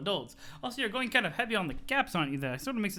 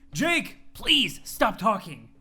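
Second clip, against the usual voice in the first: cold and slow; 4 dB louder, much slower than usual. Acted. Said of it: "Jane fucking snapped".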